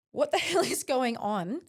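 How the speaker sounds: mock-baffled, with a laugh breaking through mid-line; laughing disbelief. Retelling her hospital stay to the host, laughing in disbelief. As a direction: ask it while laughing at the absurdity.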